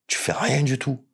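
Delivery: breathy whispered emphasis, unvoiced. Real, not acted. To the interviewer, making his point, whispered. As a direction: drop to a whisper to land the point.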